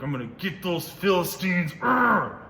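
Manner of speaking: a hammed-up shout of revenge; mock angry. Voicing Isaac wanting revenge on the Philistines, mock angry. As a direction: play it like a kid itching for a fight. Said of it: "wanted to be like".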